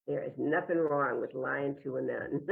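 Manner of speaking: lightly imitated Texas accent; kindly priest with a hint of Texas. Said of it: "He had this Texas accent".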